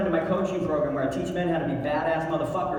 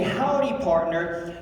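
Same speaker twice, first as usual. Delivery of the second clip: cowboy howdy; slower than usual. Shown as a demonstration. Teaching the crowd their cowboy greeting, lightly voiced. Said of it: "We're gonna say".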